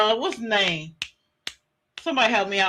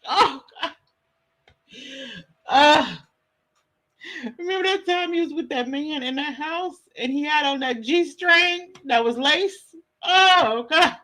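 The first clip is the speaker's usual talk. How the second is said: higher, wailing fake sobs on the last words; mock crying; 4 semitones higher than usual. Streamer mock-grieving funny memory of Ernie, fake crying. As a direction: ham up a tearful remembrance.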